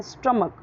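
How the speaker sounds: "स्टमक" ending in a K sound; "स्टमक" with short uh vowels and final K; correct pronunciation of stomach. Shown as a demonstration. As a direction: say "स्टमक" as STUM-uk. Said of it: "क्या बोलना है?".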